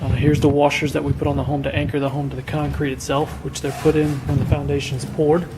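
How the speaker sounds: hoarse, worn-out voice; losing voice. Real, not acted. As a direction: talk through a hoarse throat. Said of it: "I'm losing my voice here".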